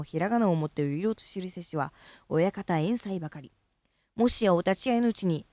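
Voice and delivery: measured, declaiming recital of a classical speech piece; formal recitation. Acted. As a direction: declaim it like a stage elocution exercise. Continues the Uirouri recitation.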